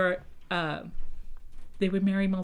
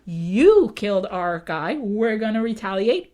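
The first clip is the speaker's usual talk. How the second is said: angry vow; 7 dB louder than usual. Retold or imitated. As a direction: hammer out the threat of retaliation like a wronged tribe. Pequots vow revenge.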